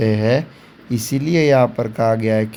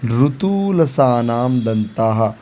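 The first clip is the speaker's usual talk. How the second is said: slow recitation; slower than usual. Shown as a demonstration. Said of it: "इसका भी एक सूत्र दिया हुआ है".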